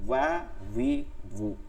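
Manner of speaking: "ওয়া, উই, উ" each from rounded lips; correct wāw pronunciation. Shown as a demonstration. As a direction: separate rounded w glides in "ওয়া, উই, উ". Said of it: "এই হচ্ছে উচ্চারণ". (গোল ঠোঁটে "ওয়া, উই, উ")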